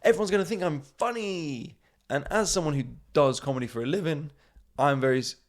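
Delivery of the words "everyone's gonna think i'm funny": show-off vicar. Retold or imitated. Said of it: "they're people who are just like".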